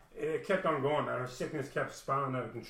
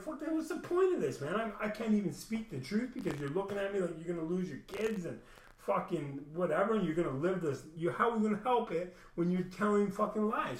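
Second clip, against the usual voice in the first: heated retort; 5 semitones higher than usual. Retold or imitated. Retelling his outburst at counseling.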